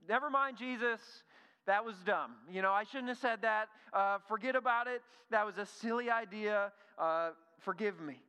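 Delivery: high, loud, flustered retraction easing down; imagined backpedaling Andrew. Acted. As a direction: hastily take back your suggestion, ending sheepishly. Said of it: "I wonder if Andrew's sitting there like".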